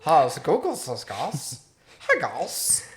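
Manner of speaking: how's Google's is, guys with every s buzzed as a z; z for s slur. Shown as a demonstration. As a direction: slur guys so the s sounds become z. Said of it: "it just sounds like you're just slurring".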